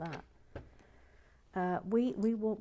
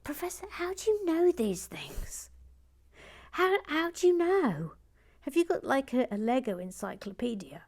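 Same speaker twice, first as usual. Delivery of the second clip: much higher, breathless wonder; amazed admiration; 6 semitones higher than usual. Real, not acted. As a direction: marvel at him, voice up high. Marvels at expert knowledge.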